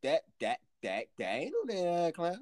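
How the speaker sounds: stammering in shock; stuttering. Retold or imitated. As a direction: trip over the first words. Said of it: "I stuttered out there".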